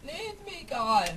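mocking echo. Mocks sister's words.

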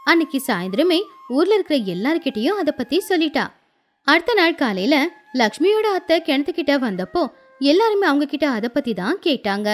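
usual speaking voice

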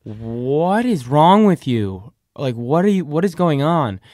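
loud, slow alarmed aunt; voicing the aunt demanding answers. Aunt demanding to know what is wrong, loud and slow.

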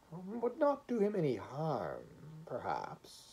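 a hint of a gentle judge, softly trailing off; gentle, sad voice. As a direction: muse it kindly, a little sad. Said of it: "hopeful and sad".

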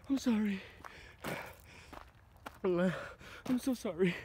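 pleading softly in fear; terrified horror victim. Real, not acted. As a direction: beg for mercy, trembling. Begging the spirit not to hurt.

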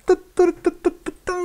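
high, playful little jingle; sing-song tu tu. Pretend. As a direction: chirp it like a game fanfare. Playful jingle while building.

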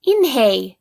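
repeated happy calls; excited shout. A narrator's reading. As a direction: cheer the name out. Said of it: "shouted Ralph".

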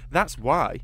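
a tense, tight-jawed retort to the major; through clenched teeth. A narrator's reading. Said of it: "his teeth clenched".

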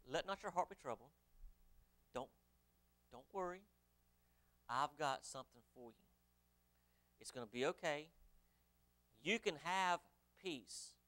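soft, hushed comfort; preacher speaking softly as Jesus to comfort; tender reassurance. Acted. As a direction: soothe a grieving friend gently.

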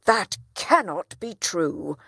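loud outraged protest; a furious father threatens court; crying out. Acted. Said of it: "cried the town trader".

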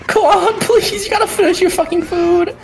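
real hype pleading; laughing pleading yell. Real, not acted. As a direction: beg the player to close it out. Begging player to finish combo.

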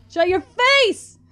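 slow, high, loud furious shout; slow angry yell. Real, not acted. Player shouting at a monster in fury. Yelling at game.

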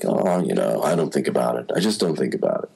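low, unbothered brush-off; deadpan. Retold or imitated. Actor dodging a question about young Han Solo, deadpan. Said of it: "he just says it very deadpan".

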